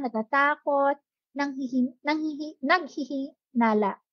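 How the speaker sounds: steady read-aloud of a textbook passage. Acted. Teacher reads a passage on emotional well-being to students, reading aloud. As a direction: read the passage out evenly, phrase by phrase.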